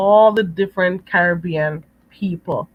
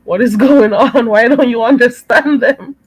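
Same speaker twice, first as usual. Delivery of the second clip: playful exasperated scolding, rising and getting louder; mock self-scolding; 4 semitones higher, 4 dB louder than usual. Speaker telling herself off for not understanding accents, mock-exasperated. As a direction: scold yourself in amused disbelief, building in volume. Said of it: "I'm thinking".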